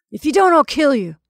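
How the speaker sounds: mock threat. Perry threatening.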